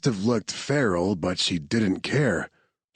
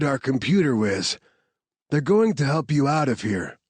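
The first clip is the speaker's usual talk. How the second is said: lightly voiced soldier, higher; Marcus introducing; 3 semitones higher than usual. Soldier introducing medic and whiz to Claire, lightly voiced. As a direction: present the team to her kindly.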